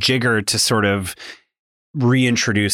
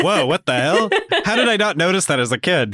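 laughing disbelief; 8 semitones higher than usual. Real, not acted. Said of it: "laughing amazement".

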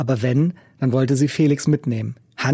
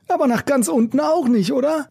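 raised, rough busker voice; gruff old street musician; 12 semitones higher than usual. A narrator's reading. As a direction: play the cynical old busker. Macke's voice in story.

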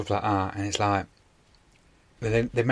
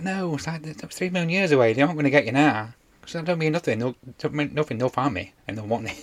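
lightly voiced Lister, higher, excited; 5 semitones higher than usual. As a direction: play it higher and animated. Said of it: "And Lister's like".

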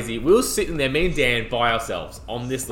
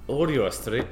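put-on faint, muddled Irish-Scottish accent; a hint of botched Celtic accent; Irish accent slipping Scottish. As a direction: attempt Irish and drift into Scottish. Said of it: "I'm doing Scottish now".

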